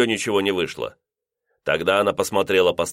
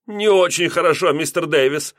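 higher landlady, anger held back; restrained anger; 9 semitones higher, 4 dB louder than usual. A narrator's reading. Landlady holding in her anger at the lodger, higher and tense. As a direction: bite it back, barely polite. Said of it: "сдерживая гнев".

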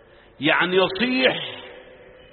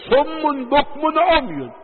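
each word drawn out high and slow; slow, lifted preaching on صم بكم عمي; slow emphatic recitation; 8 semitones higher, much slower than usual. Acted. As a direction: hammer home صم بكم عمي slowly. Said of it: "preacher reciting slowly for emphasis".

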